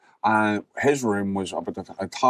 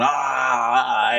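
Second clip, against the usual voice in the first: crowd outcry; 4 semitones higher than usual. Retold or imitated. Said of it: "we were all going".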